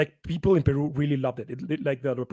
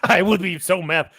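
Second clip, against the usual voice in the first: a laughing yeah, high and loud; 4 semitones higher, 6 dB louder, slower than usual. Real, not acted. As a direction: laugh the word out. Laughs at joke.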